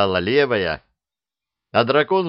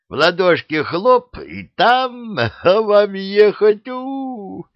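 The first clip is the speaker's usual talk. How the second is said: high, louder gleeful cry ending in a hoot; joyful shout; 12 semitones higher, 5 dB louder, much slower than usual. A narrator's reading. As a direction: shout it out in pure delight. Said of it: "радостно крикнула левая".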